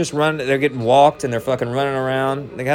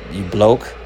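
mock British; 4 semitones lower than usual. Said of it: "Cool name, you fucking".

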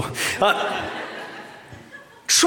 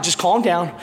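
calming dad; 6 semitones lower than usual. Retold or imitated. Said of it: "I'm like".

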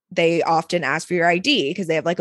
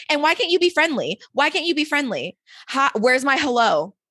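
pitched up, exasperated; indignant rant rising to a cry; 5 semitones higher than usual. Real, not acted. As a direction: rant at the rude bouncer, voice climbing. Ranting about rude bouncer.

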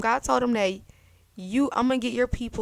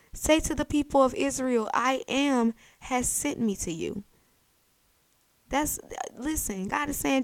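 voice of God; 6 semitones higher, 3 dB louder than usual. Acted. God voiced answering Moses.

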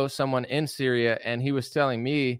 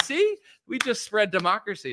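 much higher, boastful mock voice; mock smug America; 9 semitones higher than usual. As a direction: brag like a proud self-righteous nation. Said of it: "we're like".

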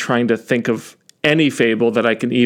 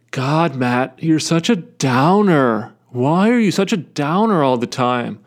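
mock Bill Burr style Boston-ish rant; lightly hammed-up comedian accent, ribbing himself; stupid put-on accent. Mocking himself as a downer, in a put-on comedian accent. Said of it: "Why am I doing this stupid accent?".

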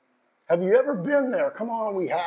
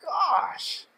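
emotional; 5 semitones higher than usual. Real, not acted. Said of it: "I get so emotional".

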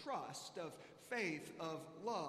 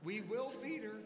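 higher, upbeat teacher giving a pep talk; bright reassuring teacher voice, pitched up; 8 semitones higher than usual. Retold or imitated. Teacher cheering up the anxious father, higher and upbeat.

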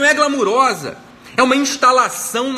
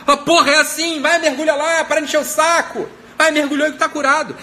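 exasperated prophet; 6 semitones higher than usual. Pretend. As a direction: push him impatiently into the river. (profeta impaciente, mais agudo e mais alto)

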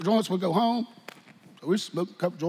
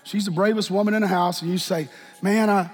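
altar call. Acted. Preacher gently inviting the congregation to the altar. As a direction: coax them gently down to the altar.

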